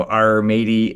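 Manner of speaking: pirate voice. Retold or imitated. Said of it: "Every time I impersonate a pirate".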